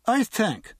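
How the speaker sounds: put-on pompous drunk pronouncement; drunken Irishman. A narrator's reading. Drunk wags a finger at the guard, tipsy and pompous. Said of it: "the drunk said".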